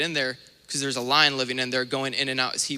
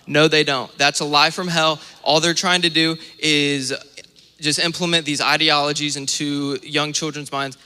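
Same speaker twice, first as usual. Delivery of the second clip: much louder, indignant preaching; forceful preaching; 6 dB louder than usual. Real, not acted. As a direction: denounce it with full force from the pulpit. Preacher denouncing teachers.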